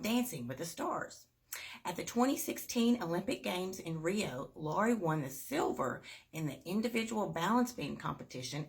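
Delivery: bright, lively storybook read; reading to children. Acted. Teacher reading a picture book to kids, bright and lively. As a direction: read it like a kids' story hour.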